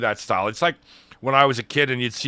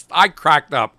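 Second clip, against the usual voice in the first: ordinary talk, nothing marked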